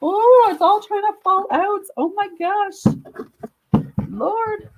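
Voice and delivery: excited squeal. Real, not acted. Reader reacts to a card.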